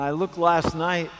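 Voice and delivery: ordinary delivery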